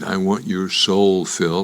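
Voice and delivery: low, slow menacing devil, lightly done; lightly voiced devil. Devil tells Phil he wants his soul, low slow. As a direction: claim his soul slowly.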